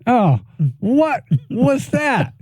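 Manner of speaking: high, slow incredulous question; stunned disbelief. Real, not acted. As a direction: drag it out in disbelief. Stunned at the call.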